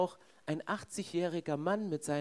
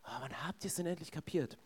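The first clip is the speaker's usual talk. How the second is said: softer, sighing exasperated thought; mock exasperation; 7 dB quieter than usual. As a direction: imitate weary impatience under your breath. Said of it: "Und Jesus denkt so".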